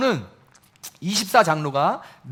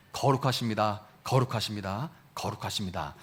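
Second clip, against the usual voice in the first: each 거룩하십니다 softer and lower; hushed reverent praise; 10 semitones lower, 8 dB quieter than usual. Acted. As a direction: let the praise fade away to almost nothing. Angels' praise quoted reverently.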